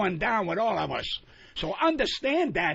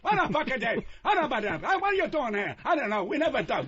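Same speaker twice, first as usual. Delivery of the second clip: higher-pitched mock family bickering; imitating yelling family; 4 semitones higher than usual. Comic mimicking his family's dinner-table talk, mock yelling. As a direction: fire off questions like a squabbling household. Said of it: "My whole family fucking yelled".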